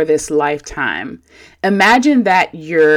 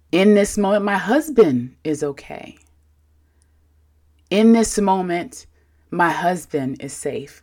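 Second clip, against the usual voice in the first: gentle and warm. Shown as a demonstration. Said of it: "nicely and gently and warm".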